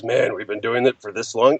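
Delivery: tired low take on the line; weary sigh. Shown as a demonstration. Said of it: "not one of those".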